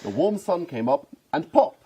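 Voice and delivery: lilting picture-book narration; mock children's story, amused; storybook reading. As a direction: read it out like a children's bedtime book. Reads parody picture book aloud.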